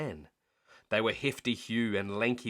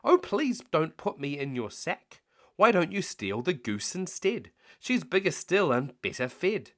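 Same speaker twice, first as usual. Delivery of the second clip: higher pleading duck voice; 6 semitones higher, 4 dB louder than usual. Acted. Duck to the thieves, higher pleading voice. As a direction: beg your way out.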